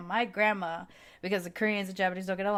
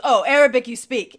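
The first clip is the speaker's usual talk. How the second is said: shopkeeper impression; 4 semitones higher, 12 dB louder than usual. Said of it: "and he goes".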